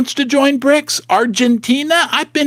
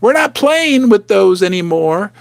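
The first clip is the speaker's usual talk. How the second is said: casual dismissive voice; 6 semitones higher than usual. Retold or imitated.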